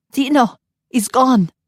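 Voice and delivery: high, loud panicked call; panicked cry. Acted. Breathless nanny warning the parents, panicked. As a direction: sound the alarm in fear.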